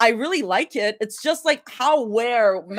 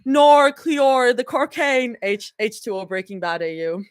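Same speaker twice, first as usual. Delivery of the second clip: put-on Australian accent. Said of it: "Australian accent".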